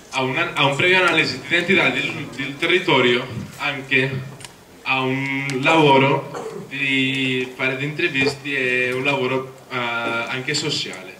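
non-native Italian with a foreign accent; Italian spoken with an English accent. Real, not acted. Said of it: "scusate il mio italiano".

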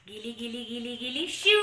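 sing-song magic spell chant; kids party magician. Pretend. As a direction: cast the spell playfully for kids. Magic spell over mixed colors.

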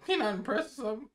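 flat robotic monotone. Real, not acted. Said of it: "Why you sound like a robot just now".

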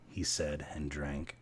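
plain reading voice

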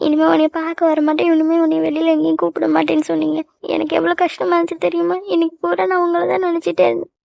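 tearful, wounded complaint; crying. Acted. Girlfriend recalling the morning quarrel on the phone, crying. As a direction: pour out the hurt through tears. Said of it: "அழாதடி".

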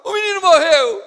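grito alto e agudo de lamento. Acted. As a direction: anuncie a morte gritando. Pregador encena o anúncio da morte. (grito dramático de luto)

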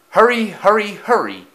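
high, loud hurrying call; calling out urgently. A narrator's reading. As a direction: call to the coaches to speed up. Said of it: "he called to his coaches".

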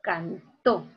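"Cantó" in two parts, can-TÓ; stress on last syllable. Shown as a demonstration. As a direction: separate the syllables of "Cantó", weight on TÓ. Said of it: "aquí está la mayor fuerza de voz". ("Cantó" separado, con fuerza en la última: can-TÓ)

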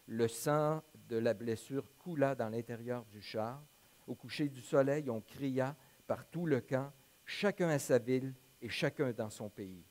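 measured Bible narration with lifted quotes; scripture reading. A narrator's reading. Pastor reads the story of Akab's death to the congregation, measured scripture reading. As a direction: read the passage aloud to a congregation, clearly phrased.

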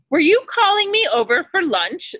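put-on grinning old wolf. A narrator's reading. Old wolf creeping up on the boy, sly and grinning. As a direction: smile through the words. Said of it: "the old wolf grinned".

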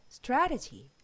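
strategy with a soft, flowing d-like t. Shown as a demonstration. Teacher repeating strategy softly for learners. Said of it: "부드럽게 발음해서".

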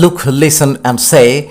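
look, listen and say read very slowly; drawn out for learners; slow classroom model. Shown as a demonstration.

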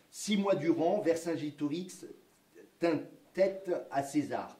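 put-on reads the old schoolbook text with measured solemn pacing; reading aloud. History teacher reads textbook passage to students, reading aloud. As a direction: recite it like a 1905 school reader.

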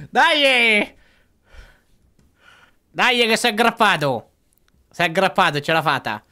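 loud, high cheer of relief; excited cheering. Real, not acted. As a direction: cheer him on, thrilled. Cheering a successful grab.

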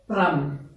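low, falling "pram" on the accent; vocal hit "pram". Shown as a demonstration. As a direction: mark the heel hit with "pram". Dancer voices an accent hit. ("pram" low, marking the dance accent)

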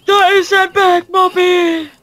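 high, slow, delighted announcement; excited. Real, not acted. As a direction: announce it with glee. Spots a car in game.

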